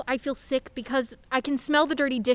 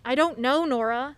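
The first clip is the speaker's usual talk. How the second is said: louder, sharp annoyed snap; irritated snap; 3 semitones higher, 7 dB louder than usual. Acted. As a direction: push her off with a louder snap. Snapping at her mother.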